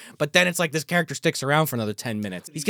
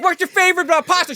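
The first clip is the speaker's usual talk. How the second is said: high and a bit louder, hammed-up Italian goon; high mock Italian guy; 12 semitones higher, 5 dB louder than usual. High hammy goon asks Angela Bassett about pasta. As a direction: play the goon asking her favorite pasta, high and hammy. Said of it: "He's like".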